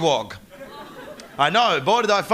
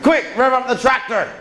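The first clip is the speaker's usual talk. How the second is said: hammed-up West Country villager; broad mock West Country, pitch swooping; bad West Country accent. Villagers raising the alarm over car theft, mock West Country accent. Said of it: "shit attempt at the accent".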